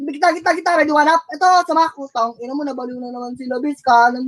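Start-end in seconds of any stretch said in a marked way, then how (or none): 2.0-3.8 soft curse under the breath; muttered curse. Real, not acted. Frustrated player cursing his teammates softly under his breath. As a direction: grumble it to yourself, softer.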